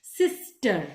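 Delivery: सिस्टर split as sis, ter, with a short gap; सिस्टर in two short chunks; broken in middle. Shown as a demonstration. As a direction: break सिस्टर midway. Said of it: "यहां से break कर दिया".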